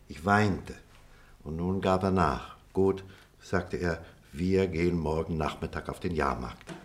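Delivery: measured storyteller with dramatic pauses; story narration. Acted. Telling listeners of a boyhood bicycle raffle, story narration. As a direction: tell it step by step, savouring the suspense.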